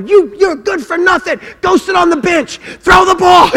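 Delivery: high, loud berating rant; coach yelling. Retold or imitated. Coach berating little Johnny on the field, hammed-up yelling. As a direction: chew the kid out, building to a shout. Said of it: "I'm yelling at the little kids".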